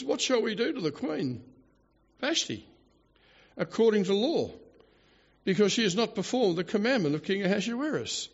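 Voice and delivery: mock blubbering king. King asks advisers about his disobedient queen, mildly mock-blubbering. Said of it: "you poor little blubbering jackass".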